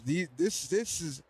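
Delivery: winded, breathy halting words; out of breath. Real, not acted. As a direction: talk while catching your breath. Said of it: "I'm out of breath".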